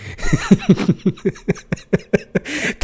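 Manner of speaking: a breathy laugh rising high; airy high laugh. Real, not acted. Host laughs at the suicide clause in the policy, airy laugh.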